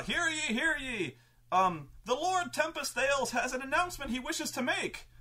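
high, ringing proclamation call; town crier. Retold or imitated. Town crier summoning the city crowd, high herald call. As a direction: cry it out like a herald in the square. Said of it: "all of the town criers are saying".

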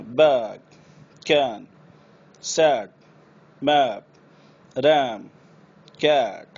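बैग with a long drawn ae; stretched ae. Shown as a demonstration. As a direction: draw the ae out long. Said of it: "खींच के बोलना है". (खींचकर बोला गया ऐ)

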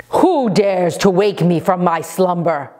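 hushed, rasping monster voice; a huge creature roused from slumber; sleeping ancient god. Acted.

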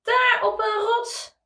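put-on talking to a baby. Parent reads to toddler.

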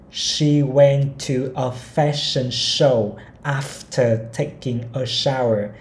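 each word of the sentence spaced out slowly; slow model reading. Shown as a demonstration. Teacher reading a model sentence to learners, very slowly. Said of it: "mình sẽ đọc mẫu".

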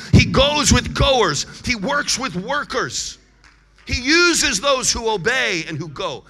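loud, emphatic pulpit declaration; forceful preaching. Real, not acted. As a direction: preach it hard, punching each phrase. Preacher driving the point home.

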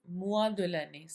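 mois de l'année very slow, each word apart; slow and clear. Shown as a demonstration. Teacher slowly repeating the lesson title. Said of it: "lesson title said slowly".

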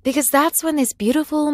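usual speaking voice

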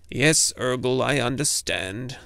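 grumbling. Acted. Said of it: "the little man grumbled".

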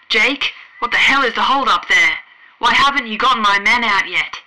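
loud, impatient demand; irritated officer. A narrator's reading. The Admiral demands why his men aren't out, loud and irritated. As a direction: bark at the wrong man on the line.

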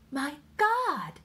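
high, startled English-language exclamation; astonished cry. A narrator's reading. Wife recognizing a neighbor's voice, astonished cry. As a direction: cry out in shock. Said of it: "Irene cried".

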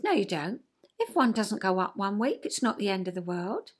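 put-on gently calm the worried child down; nurturing parent. Nurturing parent soothing the anxious child, soft and reassuring. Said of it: "nurturing parent said".

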